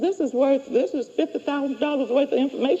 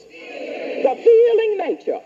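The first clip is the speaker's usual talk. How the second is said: slow, drawn-out; dictating; 6 semitones higher than usual. Shown as a demonstration. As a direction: spell it out for the class. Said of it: "Come on, subconscious".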